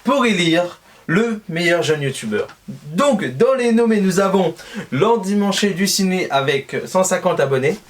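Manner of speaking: awards host. Acted.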